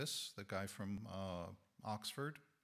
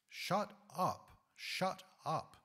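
loud, higher-pitched quoted rebuff; all-caps shout; 7 semitones higher, 5 dB louder, much slower than usual. Retold or imitated. Radio operator answering a ship's warning on the Titanic, all-caps shout. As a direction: fire it off like an all-caps telegram. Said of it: "all caps".

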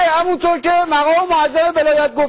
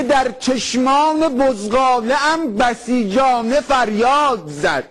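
slow, solemn poem reading; slow mock-solemn recital; slower than usual. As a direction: recite it slowly like grand verse. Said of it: "من یه شعری دارم میگه".

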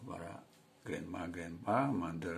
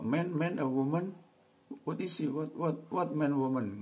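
wrong way; 9 semitones higher, 5 dB louder than usual. Shown as a demonstration. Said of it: "Nggak begitu".

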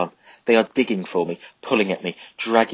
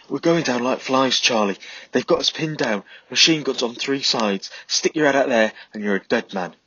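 higher, louder, urgent report; urgent soldier; 5 semitones higher, 3 dB louder than usual. A narrator's reading. Pete warning Charlie about the machine guns, raised and urgent. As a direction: sound pinned down and frightened.

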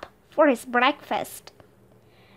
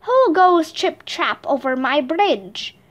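troll growl; 2 semitones higher than usual. Acted. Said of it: "growled the troll".

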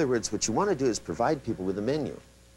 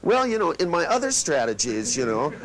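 high, louder mock excuse; rambling client; 6 semitones higher, 4 dB louder than usual. Client resisting the command, high and evasive. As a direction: whine out an excuse about other strategies. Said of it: "the person went".

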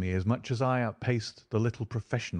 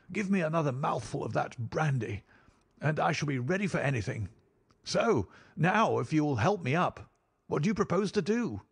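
high-pitched voice of a man recovering; shaken baronet; 7 semitones higher than usual. A narrator's reading. Baronet asks rescuers for brandy and help up, high rallying voice.

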